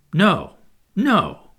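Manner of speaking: put-on a boy flatly refusing to go home; decisive. A narrator's reading. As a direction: shut it down firmly. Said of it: "he told Wendy decisively".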